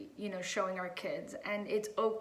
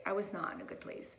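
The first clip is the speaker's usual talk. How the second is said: hushed repeat; 5 dB quieter than usual. Real, not acted. Repeating it, quieter, to herself.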